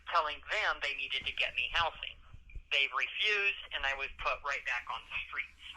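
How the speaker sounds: muffled jail phone line; on a prison phone. Real, not acted. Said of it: "legal advice over the phone".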